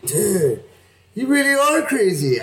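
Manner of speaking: high, laughing through the words; half-laughing, amazed at her; laughing disbelief. Retold or imitated. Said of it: "I was like".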